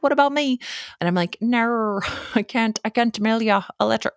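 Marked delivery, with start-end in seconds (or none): 0.0-0.6 high-pitched, hammed-up Australian listener; bad Australian accent. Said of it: "I can't do an Australian accent". 1.4-4.1 high-pitched mock Australian, laughing through it; bad Australian accent. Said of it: "I can't do an Australian accent".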